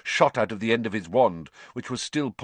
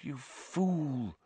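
softly spoken reproach, pitched up; 4 semitones higher, 10 dB quieter than usual. A narrator's reading. Lupin softly reproaches Snape. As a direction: say it softly, much quieter. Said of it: "said Lupin softly".

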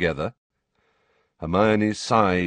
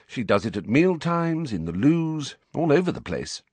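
put-on higher, vague girl's voice; 8 semitones higher than usual. A narrator's reading. Girl describes the crying while busy writing, vaguely. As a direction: carry on absently in a higher voice. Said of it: "said Hermione vaguely".

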